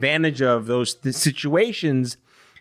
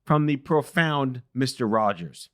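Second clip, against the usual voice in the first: higher, bright announcer-style host intro; podcast intro read; 4 semitones higher than usual. Acted. Host introducing his show and guest to listeners, announcer read. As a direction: present the show like a polished opener.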